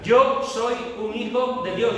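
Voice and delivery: loud, high and slow; first-person declaration. Shown as a demonstration. Preacher modelling the confession for the congregation, loud. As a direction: claim it proudly. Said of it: "di en primera persona".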